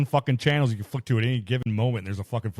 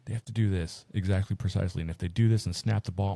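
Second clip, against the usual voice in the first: calm explaining; 4 semitones lower than usual. Retold or imitated. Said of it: "He's calmly like".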